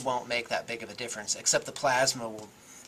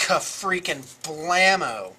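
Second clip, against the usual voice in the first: yelling at a horse race; 4 semitones higher, 6 dB louder, slower than usual. Real, not acted. Celebrating a good dice roll.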